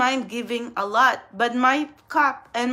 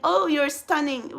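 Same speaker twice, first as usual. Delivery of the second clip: fake compliment; 3 semitones higher than usual. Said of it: "what a fucking fake".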